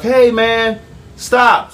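lightly voiced timid bystanders asking him to stop; onlookers pleading. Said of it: "they're like".

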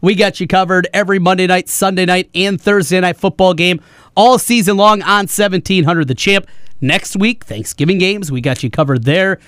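upbeat sports-radio host voice; radio promo read. Real, not acted. Host telling listeners about tonight's football coverage, in radio promo voice. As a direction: announce the show with measured punch.

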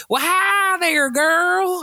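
grandfatherly greeting, very high and drawn out; hammed-up impression of a lovable old character; Don. Don greeting Crystal like a grandfather, high and drawn out. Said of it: "he's like your grandfather".

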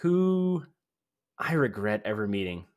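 stretched-out mock British surfer accent; the speaker as British surfer. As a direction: confess it in a hammed-up European surfer accent. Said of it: "British surfer".

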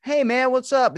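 playing along with a stranger on the phone, falsely excited; fake enthusiasm. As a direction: overplay the recognition. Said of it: "I'm gonna roll with this one".

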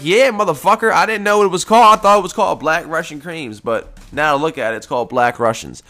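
snapping back at the store clerk, mock indignant; heated retort. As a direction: fire it back at the clerk, half amused. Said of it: "I'm like".

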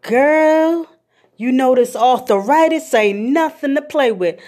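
a hint of a grumbling granny; grandma griping about arthritis; complaining grandma. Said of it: "She be like".

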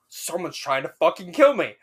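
panicked outburst, retold with a rise. Student alone reacting to the pounding door, panicked. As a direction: retell your alarm, voice jumping up.

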